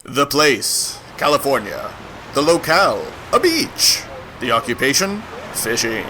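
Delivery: comic narration. A narrator's reading.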